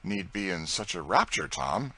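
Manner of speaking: dryly. Acted. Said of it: "he said dryly".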